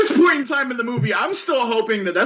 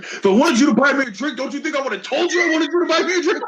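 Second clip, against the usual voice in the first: mock badass comeback; 3 semitones higher, faster than usual. The speaker acting tough.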